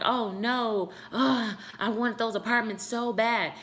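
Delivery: mock dismay. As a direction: retell the letdown with a light groan. Acting out her past dismay.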